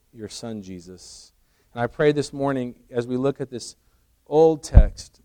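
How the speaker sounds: unhurried congregational prayer. Real, not acted. Leads a prayer.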